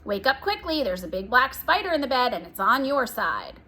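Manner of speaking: hushed-urgent fake alarm about a spider; scary and urgent. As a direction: scare the twin with a made-up spider. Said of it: "making her voice scary and urgent".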